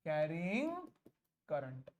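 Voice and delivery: low, split by a long pause; low, spaced-out dictation; dictating word by word. Real, not acted. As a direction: separate the words for copying. Repeats it word by word.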